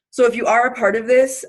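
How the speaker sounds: breathless, pushing the words out; short of air, talking through it; out of breath. Real, not acted. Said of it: "I'm out of breath for no reason".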